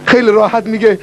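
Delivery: usual speaking voice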